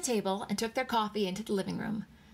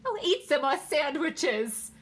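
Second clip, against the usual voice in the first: high, loud, drawn-out urging; shrieking hostess; 7 semitones higher, 5 dB louder, slower than usual. A narrator's reading. Hostess to guests at cocktail party, high shriek. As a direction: shriek it over a noisy party. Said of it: "a woman shrieked".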